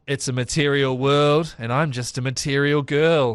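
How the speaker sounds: lightly voiced streetwalker, slow delivery; slow, drawn-out game-character catchphrase; woman of the night. Woman of the night touting in Novigrad, slow lightly acted catchphrase. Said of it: "She says it like that".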